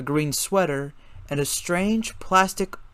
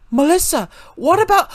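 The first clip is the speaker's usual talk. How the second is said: sudden realization; 8 dB louder than usual. A narrator's reading. Valentine realizing, cut off.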